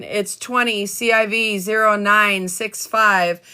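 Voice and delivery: "twenty C I V zero nine six five" read slowly, letter by letter; slow, clear reread. Shown as a demonstration. Reading the case number again for viewers, slow and clear. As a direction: spell out "C I V" and each digit slowly for note-takers. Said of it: "And I'll read it out again".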